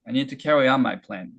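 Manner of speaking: very slow, each word drawn out; unhurried linked-up model reading; slow stretched demo. Shown as a demonstration. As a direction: stretch the line out slowly. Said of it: "천천히 해볼게요".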